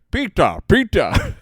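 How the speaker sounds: put-on high-pitched call in a Sicilian Australian accent; a Sicilian Australian man calling for Pita; old Sicilian Australian man calling to the dad, in a Sicilian Australian accent. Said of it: "my dad will always do the impression".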